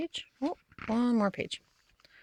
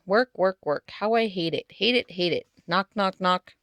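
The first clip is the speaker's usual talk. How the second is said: grumbling. Acted. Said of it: "soon she was grumbling again".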